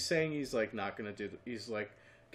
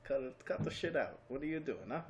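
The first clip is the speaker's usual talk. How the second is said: badly faked Russian accent, slightly higher; 4 semitones higher than usual. Russia telling off North Korea, in a shaky attempt at a Russian accent. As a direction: do a half-hearted Russian accent. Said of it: "That's my Russian accent".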